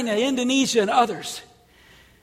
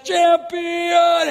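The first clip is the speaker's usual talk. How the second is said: higher, loud shouted champion; shouted climax; 6 semitones higher, 4 dB louder than usual. Retold or imitated. Actor ending the play, shouted champion. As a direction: belt it out as the play ends.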